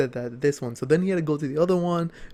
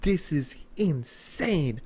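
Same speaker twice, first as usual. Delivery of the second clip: slow awed disbelief; much slower than usual. Retold or imitated.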